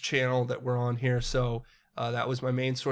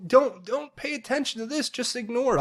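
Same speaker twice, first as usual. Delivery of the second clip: sarcastic; 11 semitones higher than usual. Real, not acted. Sarcastic aside about scandal news.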